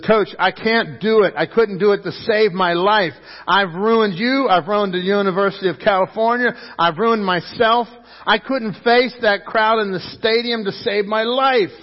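imitating a distraught player begging off; acted anguish. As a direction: plead in despair, pitch held high. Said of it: "He's still crying".

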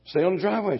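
put-on high, loud call to a child; a grandfather calling to a toddler. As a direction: shout the warning across the drive.

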